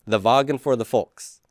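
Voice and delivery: "Wagen" as "VAH-gen", "Volks" as "folks"; German sounds on "Wagen" and "Volks"; German words. Shown as a demonstration. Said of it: "In German, you would pronounce that".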